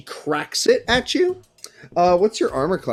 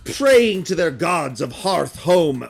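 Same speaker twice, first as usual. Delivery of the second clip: bitter leader denouncing those who turned away; vengeful slaver leader. Acted. Slaver to the captives about their betrayers, bitter and emphatic. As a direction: preach resentment with heavy emphasis.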